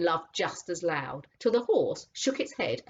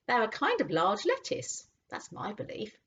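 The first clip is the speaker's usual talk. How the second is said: higher, small rabbit voice; 5 semitones higher than usual. Acted. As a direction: chirp it like a rabbit.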